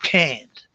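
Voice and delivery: "Can't" with an American front A; American pronunciation. Retold or imitated. Teacher quoting the pupil's mistake, "Can't" with front A. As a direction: say "Can't" the American way, vowel as in "cat". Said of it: "he was talking with an American".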